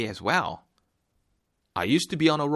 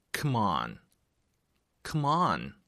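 ordinary talk, nothing marked

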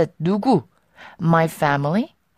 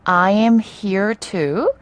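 slow model sentence; much slower than usual. Shown as a demonstration. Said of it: "오늘 우리가 배울 표현은요".

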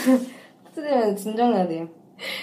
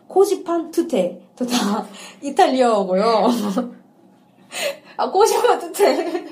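breaking up on the title; slow then dissolving into giggles; laughing; 4 semitones higher, 3 dB louder than usual. Real, not acted. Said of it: "이게 왜 웃긴 건지".

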